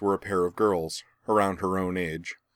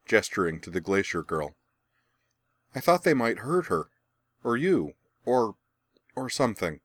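put-on higher, earnest young boy; worried boy voice; 3 semitones higher than usual. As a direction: speak as an anxious boy. The boy explains his worry.

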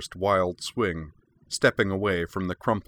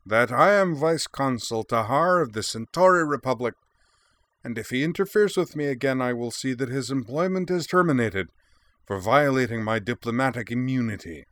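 put-on higher, pompous Centauri accent; Tahar's Centauri accent; 5 semitones higher than usual. A narrator's reading. Vice consul threatening the young mercenary, pompous Centauri accent. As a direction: threaten like a puffed-up Centauri official. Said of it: "said the elder in blearily accented standard".

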